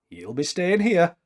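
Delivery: contentedly. Acted. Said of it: "said Maclachlan contentedly".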